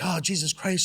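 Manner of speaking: high, loud exasperated cry; retold exasperated outburst; exasperated exclamation. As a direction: throw it out in disbelief. Son reacting to gas leak.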